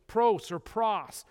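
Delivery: pros said slowly both ways, first with an oh, then with an ah; slow careful Greek word pros; slow pronunciation demo. Shown as a demonstration. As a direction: spell out pros carefully, two vowels. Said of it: "in the original language".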